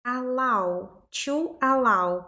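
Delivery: "allow" said "a-LAU", with an A sound; "allow" with open A in the diphthong; middle A sound. Shown as a demonstration. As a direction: model "allow" with "ow" as in now. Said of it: "esse meio aqui tem som de A".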